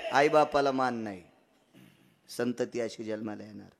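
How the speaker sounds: hushed punchline. Acted. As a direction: let the voice fall away. Quiet follow-up after the shout.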